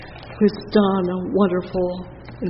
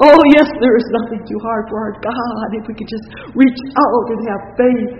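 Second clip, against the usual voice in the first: higher, louder fervent appeal; fervent preaching; 4 semitones higher, 9 dB louder, faster than usual. Acted. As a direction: press them to reach out. Preacher calls congregation to reach out.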